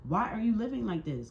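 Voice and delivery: high, insistent questioning; exasperated scolding. Real, not acted. Reader scolding wrongdoers, exasperated. Scolding the people read about.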